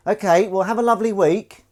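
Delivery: high, bright cat voice; lightly voiced pet cat. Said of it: "I'm speaking in the cat voice".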